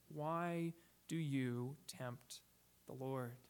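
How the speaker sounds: drawn out slowly, weighty; slow revealing question. Retold or imitated. Preacher voicing Moses's revealing question, slow and weighty. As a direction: let each word land slowly. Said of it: "very revealing question".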